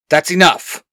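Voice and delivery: put-on young leader snapping at a friend. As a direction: cut the scuffle short. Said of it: "Xander snaps".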